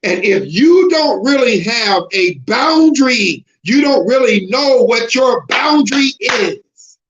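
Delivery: rising sermon voice that swells into shouts; preaching. Acted. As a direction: preach it at the congregation, building to full force. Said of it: "I don't even talk like this, but I'm talking like this".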